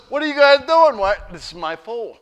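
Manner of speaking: loud, high outraged yell at the strangers; angry shout. Acted. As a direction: bellow at the two men untying the donkey. Donkey owner shouting at disciples.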